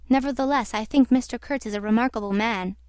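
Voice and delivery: firm emphasis on "Nevertheless" and "remarkable"; measured, emphatic assertion of "remarkable man". A narrator's reading. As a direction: state "I think Mister Kurtz is a remarkable man" emphatically. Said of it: "I said with emphasis".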